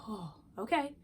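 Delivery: soft, settling pause to regroup; a quiet, collected okay; pausing calm. Retold or imitated. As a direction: breathe and reset before answering. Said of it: "press a pause button".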